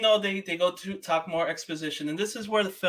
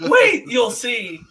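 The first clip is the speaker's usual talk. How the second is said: teasing; 7 semitones higher, 8 dB louder, much slower than usual. Retold or imitated. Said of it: "I was just like".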